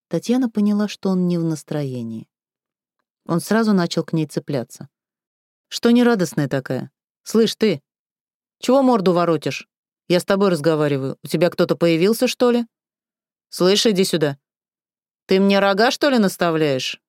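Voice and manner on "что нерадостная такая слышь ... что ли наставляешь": picking a fight. Acted. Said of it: "Начал раскочегариваться Сашок".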